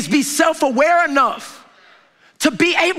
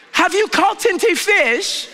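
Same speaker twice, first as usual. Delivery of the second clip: petty; 8 semitones higher, slower than usual. Retold or imitated. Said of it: "Jesus being petty right here".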